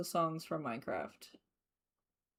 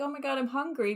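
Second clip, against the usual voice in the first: whiny dog voice; 7 semitones higher, faster than usual. Retold or imitated. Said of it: "the dog is like".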